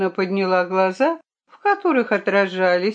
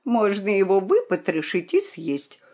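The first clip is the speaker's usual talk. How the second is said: dry. Acted. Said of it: "сухо выговорила королевна".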